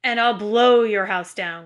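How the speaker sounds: loud, growled wolf threat; growling wolf. A narrator's reading. Wolf threatens the first pig's straw house, loud growl. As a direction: growl it out as the big bad wolf, drawing out the last words. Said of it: "growled the big bad wolf".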